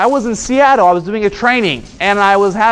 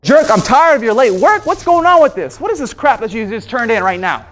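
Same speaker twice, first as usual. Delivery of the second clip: raised, heated mock complaint; imitating angry coworker; 2 semitones higher than usual. Coworker attacking over late work, mock angry. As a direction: play the irate coworker chewing you out. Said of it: "If someone's coming up to me and said".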